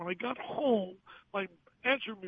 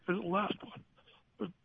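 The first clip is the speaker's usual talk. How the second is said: emotional; 3 dB quieter, slower than usual. Real, not acted. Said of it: "you hear the emotion in your voice".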